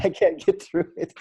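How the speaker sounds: laughing. Real, not acted. Laughs through the quote.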